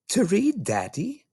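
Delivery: put-on high, small child's voice; little girl voice. Little girl answering her father, high and small.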